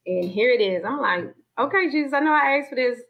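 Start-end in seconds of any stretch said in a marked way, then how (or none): 1.6-3.0 raised, earnest plea to Jesus; fervent prayer. Retold or imitated. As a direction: throw yourself into the prayer. Retold prayer after crying plea.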